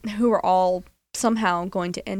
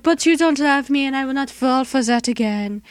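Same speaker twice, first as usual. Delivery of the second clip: higher, louder hammed-up stewardess protest; mock melodrama; 6 semitones higher, 5 dB louder than usual. Host hams up the stewardess rejecting the pilot, higher and louder. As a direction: overplay a wounded lover refusing him. Imitating the stewardess in a hotel scene.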